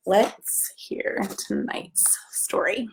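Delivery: hushed whisper, slow. Acted. Storyteller whispering to children before the story.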